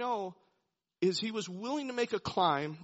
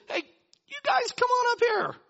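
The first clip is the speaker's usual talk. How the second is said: high, loud shout down a cliff; big calling-out voice; hailing from above; 5 dB louder than usual. Retold or imitated. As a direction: holler to men far below. Garrison hailing Jonathan from the cliff.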